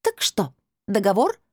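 high, clinching question; decisive crystal voice. A narrator's reading. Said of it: "припечатал". (высоким голосом, припечатывая)

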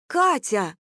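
a startled outraged cry; shocked gasp. A narrator's reading. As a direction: gasp out her name. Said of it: "ахнула Лиза".

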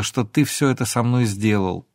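ordinary delivery, nothing marked

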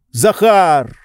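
calling sternly. A narrator's reading. Oblomov calls servant.

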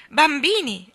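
put-on high, loud call to children; exclaiming. A narrator's reading. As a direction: summon the children excitedly. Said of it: "esclamò".

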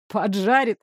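«Поджарит?» насмешливо, ниже, с издёвкой; передразнить её слово «Поджарит?»; насмешливое переспрашивание. Acted. (злодей насмешливо переспрашивает «Поджарит?»)

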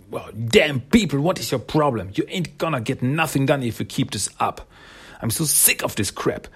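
playing someone sick of it all; mock fed-up scolding. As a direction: tell off the whole squabbling room. Acting out Sally scolding everyone.

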